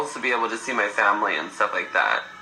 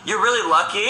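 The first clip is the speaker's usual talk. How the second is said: flirty compliment; 7 semitones higher than usual. Retold or imitated. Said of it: "He's like".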